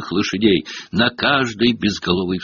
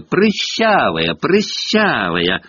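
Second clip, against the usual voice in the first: mild mock yell; 5 semitones higher, much slower than usual. A narrator's reading. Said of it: "громко выкрикивая".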